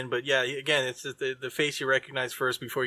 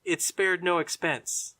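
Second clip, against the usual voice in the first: 1 quoting the movie line; 3 semitones higher, slower than usual. Retold or imitated. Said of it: "let's see if you get this reference".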